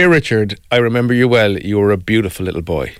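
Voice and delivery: reading a cherished letter, touched; emotional. Real, not acted. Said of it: "I'm gonna get emotional here".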